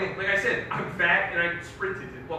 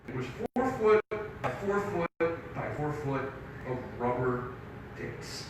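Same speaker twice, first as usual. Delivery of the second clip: reluctant telling; 4 semitones lower, 6 dB quieter than usual. Real, not acted. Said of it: "it's really hard to tell the story".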